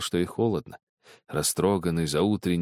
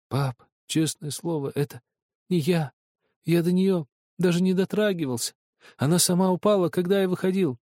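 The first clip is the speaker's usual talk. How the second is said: put-on stammering boy; 9 semitones higher than usual. A narrator's reading. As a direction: stammer out the denial. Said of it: "заикаясь". (запинаясь, испуганно)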